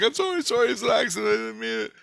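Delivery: high-pitched, flustered imitation of her; mimicked frantic apology. Retold spirit apologising.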